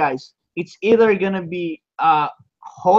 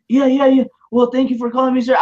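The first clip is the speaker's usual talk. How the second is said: eager; 5 semitones higher, faster than usual. Retold or imitated. Eager reply to eBay agent.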